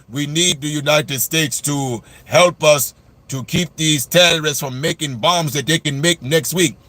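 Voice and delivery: a hint of a begging leader, slowed down; Netanyahu impression. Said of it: "Israel, Netanyahu".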